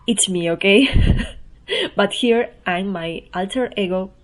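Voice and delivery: ordinary talk, nothing marked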